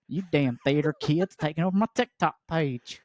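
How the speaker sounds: grumbling Southern working man; lightly grumbled Southern accent. Acted. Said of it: "giving him a thick Southern accent".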